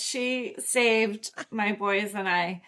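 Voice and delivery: slowed right down with real emotion; moved, halting pace; emotional. Real, not acted. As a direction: say it slowly, genuinely moved. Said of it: "It makes me emotional".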